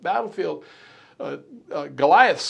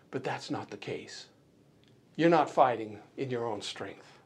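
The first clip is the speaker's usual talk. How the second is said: softer, gentle encouragement; encouraging; 5 semitones lower, 7 dB quieter than usual. Real, not acted. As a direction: soothe the frightened listeners gently. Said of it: "say this respectfully and encouraging".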